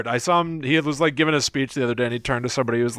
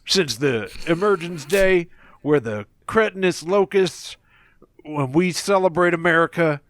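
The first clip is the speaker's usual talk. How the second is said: George W. Bush impression; 2 semitones higher than usual. Shown as a demonstration. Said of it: "Let's do G W".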